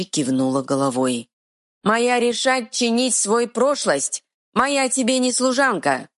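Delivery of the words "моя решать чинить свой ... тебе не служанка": stubborn dim-witted troll. Acted. Troll speaks.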